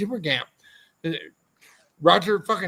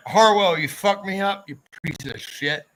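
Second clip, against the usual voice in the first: mock angry rant; 3 semitones higher than usual. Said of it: "Oh, all right".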